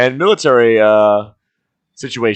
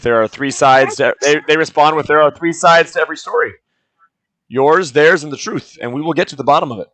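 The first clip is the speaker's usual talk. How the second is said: lightly voiced NPC. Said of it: "I don't know why I'm talking in this voice".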